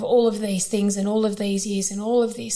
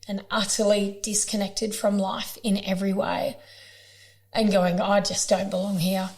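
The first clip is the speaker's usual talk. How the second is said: getting emotional. Real, not acted. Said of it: "I always get emotional".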